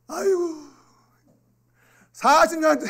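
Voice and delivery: high, loud groaning complaint; mock exasperation. Child grumbling over a forty-year wait for a phone, mock exasperation. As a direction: wail it in mock disbelief.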